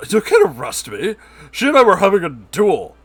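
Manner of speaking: loud, high outrage; can't believe this is happening; whiny man yelling at cop; indignant protest. Acted. Lewis protests his arrest.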